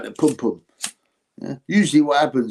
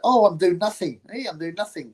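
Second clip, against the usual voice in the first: mock Parker; 5 semitones higher than usual. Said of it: "wiggling his ass like that".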